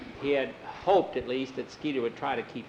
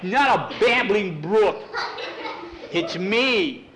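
crying; 6 semitones higher, 5 dB louder, slower than usual. Acted. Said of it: "What are you crying about?".

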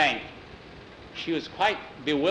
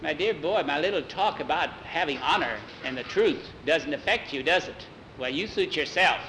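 condescending witch; 2 semitones higher than usual. Acted. Witch taunts doubtful Jackie.

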